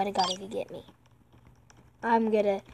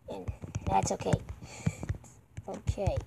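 whisper; 4 semitones lower, 11 dB quieter than usual. Real, not acted. Repeats the line as a whisper.

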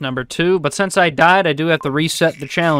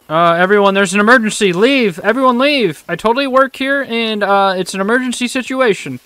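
higher-pitched mock alarm to clear a crowd; put-on emergency call, pitched up; fake emergency announcement; 5 semitones higher than usual. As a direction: pretend to raise an urgent alarm.

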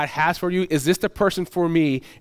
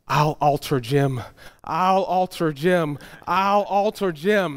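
slow, repeated, deliberate chant; slow mock-nervous bride chanting her mantra; bride's mantra; slower than usual. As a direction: murmur it to yourself step by step.

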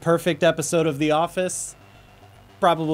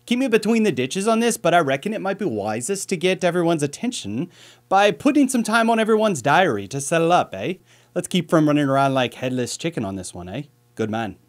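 light Irish accent, a little higher and brighter in pitch, imitating his boss; Irish boss impression; 4 semitones higher, 3 dB louder than usual. Quoting his Irish boss to viewers, in a mild Irish accent. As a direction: do the boss's Irish lilt, half-hearted but fond. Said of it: "man, he's got a great accent".

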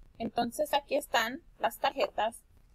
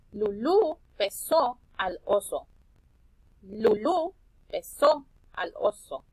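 "Lulú besó al oso" slow and a little louder; model sentence; 4 dB louder, slower than usual. Shown as a demonstration. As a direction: read "Lulú besó al oso" slowly for the class. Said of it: "Escuchen esta oración". (oración modelo, lenta y clara)

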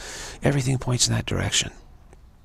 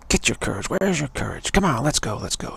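urging man, pitch jumping up; rally a coward, mock-stern; male pep talk; 4 semitones higher than usual. Man urging a frightened walker to find courage, pep talk. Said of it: "you try that male type of thing".

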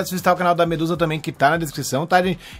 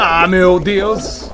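dismayed slow groan; much slower than usual. Real, not acted. Character in race, panicked.

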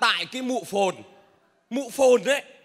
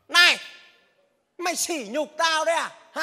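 offended; 5 semitones higher than usual. Acted. Driver insulted at being handed money, offended outburst. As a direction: bristle at the insult.

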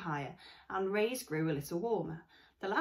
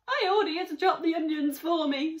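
put-on higher, louder bossy girl voice; young girl; 10 semitones higher, 9 dB louder than usual. Tearful girl ordering the robot, higher bossy voice. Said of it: "said Jaya".

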